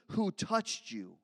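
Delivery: Who touched you? slowed, mocking disbelief; incredulous repeat. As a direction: echo Who touched you? slowly, baffled. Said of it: "What do you mean".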